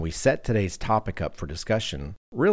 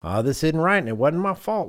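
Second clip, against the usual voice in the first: high, louder whiny excuse voice; high, louder mock excuse; mocking the superintendent; 9 semitones higher, 4 dB louder than usual. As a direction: mimic a defensive contractor passing the blame. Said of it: "he was kinda like".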